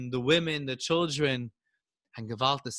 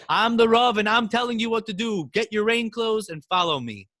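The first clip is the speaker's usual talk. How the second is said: loud, commanding rabbi; stern rabbi silencing the crowd; firm command; 7 semitones higher, 5 dB louder than usual. A narrator's reading. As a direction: assert authority over the crowd. Rabbi overrules frightened crowd.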